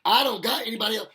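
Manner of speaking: put-on sweet-talking baby mama. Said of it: "it's like".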